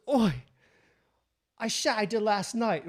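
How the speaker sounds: botched attempt at Australian that lands English; English accent. Storyteller quoting the Australian dude, wobbly English accent. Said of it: "I think that's English".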